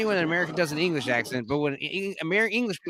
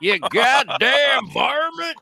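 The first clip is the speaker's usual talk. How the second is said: high, loud, drawn-out cowboy holler; cowboy shout; 9 semitones higher, 5 dB louder, much slower than usual. Acted. Joining in the Texas accent bit, loud cowboy shout. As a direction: holler it slowly like an angry cartoon cowboy.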